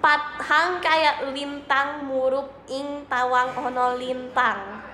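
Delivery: slow careful Javanese reading; reading Javanese aloud. Shown as a demonstration. Streamer reads a Javanese line to viewers, slow and careful. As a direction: sound out the Javanese line slowly.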